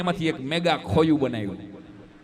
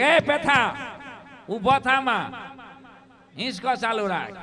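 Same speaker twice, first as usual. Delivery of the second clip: put-on higher, louder call of a bossy old woman; old woman's shout; 4 semitones higher, 4 dB louder, slower than usual. Old woman yelling at the man to keep rocking her, shouting. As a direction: holler at the man to keep swinging. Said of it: "ડોશીમાં રાડ્યું પડે કે".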